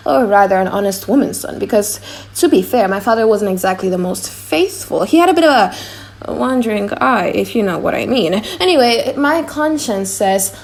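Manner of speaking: a flustered jester torn between two voices; comic clown. Acted. Launcelot the clown's monologue.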